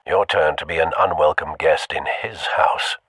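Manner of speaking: breathy whispered take, no voice; hushed whisper to the listener. Shown as a demonstration. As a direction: whisper it like a secret threat.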